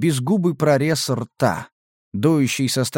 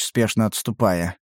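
ordinary delivery

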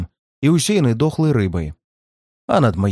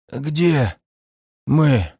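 lips barely moving, weak; numb lips. Acted. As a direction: speak through numb lips. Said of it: "Шевелю непослушными губами". (онемевшими губами)

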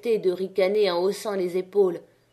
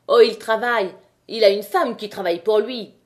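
raillerie populaire plus forte; moquez-vous en lançant la pique; voix gouailleuse; 5 dB louder than usual. A narrator's reading. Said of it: "Une voix gouailleuse interrompit". (un mineur raille Chaval devant la foule, gouailleur)

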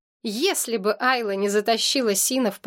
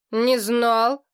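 a touch of puzzled surprise; understated surprise, rising; mild surprise; 2 semitones higher than usual. Acted. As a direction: lightly caught off guard. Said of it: "удивился младший".

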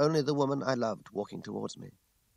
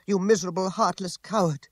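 loud, high outraged woman's voice; angry accusation; 8 semitones higher, 7 dB louder than usual. A narrator's reading. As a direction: hurl the insult with contempt. Furious woman denounces her former lover.

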